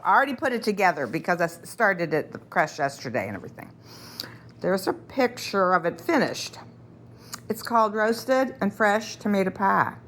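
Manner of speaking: talking while chewing gum; chewing gum between words. Real, not acted. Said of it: "I have gum in my mouth".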